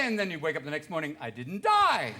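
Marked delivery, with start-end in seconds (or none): 1.2-2.1 high, loud, gleeful cry; mock giddy relief. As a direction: cheer it like a reckless fool. Retold giddy morning after.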